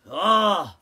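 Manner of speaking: loud hammed-up complaint; mock tragedy over protein; mock lament. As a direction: wail over a trivial loss. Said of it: "he's like".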